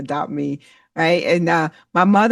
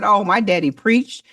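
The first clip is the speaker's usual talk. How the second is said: naive confidence; 5 semitones higher than usual. Retold or imitated. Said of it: "I said".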